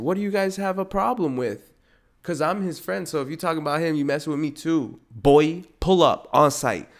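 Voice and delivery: acted tough defence of a friend; confrontational. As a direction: call them out, building to a shout. Acts out confronting the gossips.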